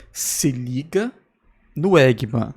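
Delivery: slow, drawn-out villain voice; menacing cartoon villain line; slow theatrical villain menace. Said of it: "uma voz de vilão mesmo".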